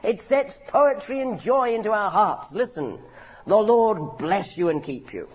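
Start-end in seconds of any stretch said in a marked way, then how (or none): 3.5-5.3 "The Lord bless you and keep you" slow, with a pause after; measured blessing. Shown as a demonstration. Preacher reading the blessing slowly with a pause after. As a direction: read it slow, then let it rest.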